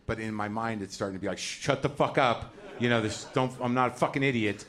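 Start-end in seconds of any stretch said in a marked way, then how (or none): 1.4-4.6 inner anger. Retold or imitated. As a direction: hold back rage in your head. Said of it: "that's what's going on in my head".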